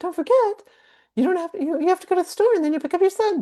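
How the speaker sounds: very high, sped-up squeaky voice, high and fast. Demonstrating a funny voice to ease stress, in a sped-up Minnie Mouse voice. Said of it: "speed it up like Minnie Mouse".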